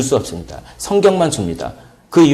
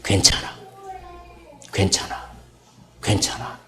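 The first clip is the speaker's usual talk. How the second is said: hushed, unvoiced "괜찮아", soft and tender; soothing whisper; 9 dB quieter than usual. Mother hushing her crying baby with a soothing whisper. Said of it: "이렇게 바꿨다고 합니다".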